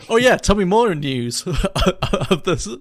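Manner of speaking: an Icelander by the sea asking for fish news, slow and amused; dreamy fisherman. Pretend. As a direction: gaze out to sea and drawl it lazily. Idiom speaker musing by the sea.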